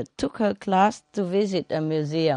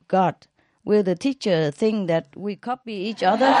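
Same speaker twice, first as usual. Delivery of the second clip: laughing; 3 semitones higher than usual. Acted. Kid joking, laughing through it.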